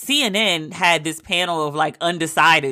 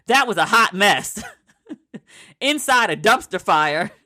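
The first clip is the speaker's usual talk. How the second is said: imitating Jake Tapper; 2 semitones higher than usual. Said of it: "Jake said, quote".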